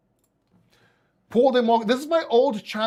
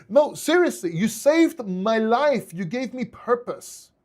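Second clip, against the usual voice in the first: emotional; 3 semitones higher, slower than usual. Real, not acted. Thanking the viewers who kept him going through cancer, slow and emotional. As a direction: let the emotion slow every word down. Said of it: "I'm getting a little bit emotional here".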